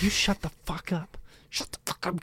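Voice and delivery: angry whisper, retold; hushed scolding. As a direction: whisper it so nobody else wakes. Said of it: "'cause I can't get mad at him".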